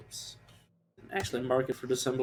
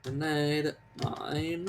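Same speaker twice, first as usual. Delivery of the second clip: drawn-out words, rising at the end; odd mannerism; 3 semitones higher, much slower than usual. Real, not acted. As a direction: say each word like a quirky little announcement. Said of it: "why did I have to say it like that".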